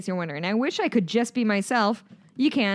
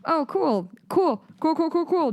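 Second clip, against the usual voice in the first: sarcastic; 8 semitones higher than usual. Real, not acted. Sarcastic repeated cool.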